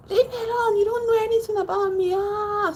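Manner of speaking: very high, strained mock outburst; pissed off. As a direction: act out an irritated friend yelling to be left alone. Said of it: "he's pissed off".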